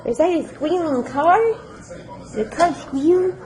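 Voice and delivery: high startled ooh; surprised. Real, not acted. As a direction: react to a sudden squeal. Surprised by a squeal.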